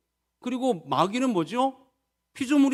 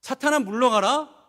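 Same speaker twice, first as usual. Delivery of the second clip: mock disbelief; 4 semitones higher, 3 dB louder than usual. Shown as a demonstration. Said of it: "에게?".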